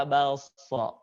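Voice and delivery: "Bakso" with the mouth wide open. Shown as a demonstration. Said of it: "Rongga mulutnya terbuka".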